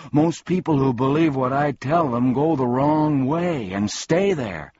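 high, loud tearful wail; hysterical crying. A narrator's reading. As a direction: wail it like a found-out little creature. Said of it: "crying hysterically".

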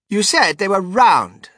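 high, loud, slow accusing whine; whiny spoiled girl. Acted. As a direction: nag like a spoiled child.

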